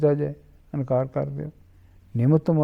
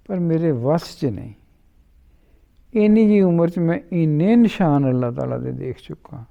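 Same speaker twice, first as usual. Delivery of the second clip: helpless pleading. Retold or imitated. Young boy tells his uncle it is beyond him, mildly helpless. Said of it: "اس نے نہایت بے بسی سے کہا".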